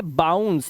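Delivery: बाउंस with an "ow" glide; "au" sound. Shown as a demonstration. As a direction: model the आऊ sound inside बाउंस. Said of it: "आऊ की आवाज आई".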